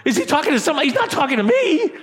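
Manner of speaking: amused self-mocking disbelief; laughing mock denial. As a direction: pretend he can't mean you, laughing. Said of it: "you're like".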